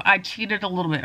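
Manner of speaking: talking while bent over; hunched over. Real, not acted. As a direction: speak folded over, cramped. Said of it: "I'm all hunched over here".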